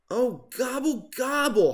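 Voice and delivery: high, far-off wailing gobble; howled gobble. Acted. Turkey sent back to the zoo, howling gobble. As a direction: wail like a thwarted turkey. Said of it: "howled Turkey".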